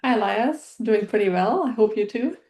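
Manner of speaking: ordinary delivery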